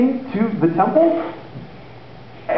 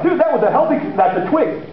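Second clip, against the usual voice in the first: stunned disciples; 5 semitones higher than usual. Retold or imitated. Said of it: "The disciples are like".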